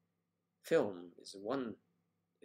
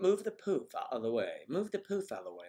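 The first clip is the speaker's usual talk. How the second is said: 1 quoting the film crew; 3 semitones higher, 4 dB louder than usual. Retold or imitated. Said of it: "they were calling it".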